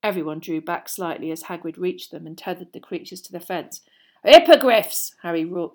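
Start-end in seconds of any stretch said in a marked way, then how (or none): 4.2-5.2 loud joyful announce; proud and delighted; happy roar. A narrator's reading. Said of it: "Hagrid roared happily".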